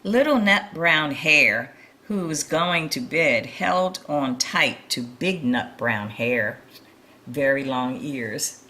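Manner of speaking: lively storybook reading voice; reading to children. A narrator's reading. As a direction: read it like a bedtime picture book for little ones. Reading picture book to children.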